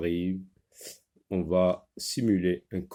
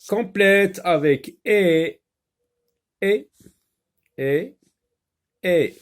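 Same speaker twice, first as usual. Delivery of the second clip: loud instruction; 9 semitones higher, 6 dB louder, slower than usual. Acted. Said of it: "reads the task aloud".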